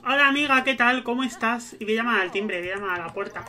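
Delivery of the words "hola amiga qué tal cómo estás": cheery hello. Real, not acted. Greeting a neighbour in game.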